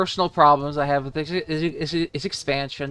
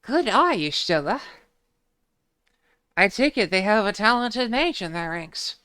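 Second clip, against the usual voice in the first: lightly voiced game characters, higher; 5 semitones higher than usual. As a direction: read the lines a bit higher. Voicing game dialogue.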